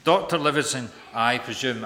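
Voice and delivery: projected, emphatic salutation; loud greeting. Acted. Stanley greeting the explorer, loud and emphatic. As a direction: repeat the greeting boldly to the hall. Greeting repeated in preacher's louder voice.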